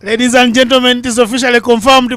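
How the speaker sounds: ringing MC-style build to the name; grand announcement. Real, not acted. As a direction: announce him like a ring introduction. Formal announcement of new commentator.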